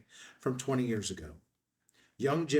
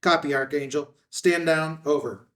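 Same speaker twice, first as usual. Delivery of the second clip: radio reply; 3 semitones higher, 6 dB louder than usual. Acted.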